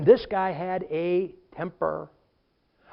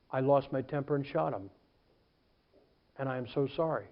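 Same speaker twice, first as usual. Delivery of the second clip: low, soft mock confession; remorseful confession; 5 semitones lower, 7 dB quieter than usual. Defendant in the courtroom, acted remorse. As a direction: lower it into acted contrition.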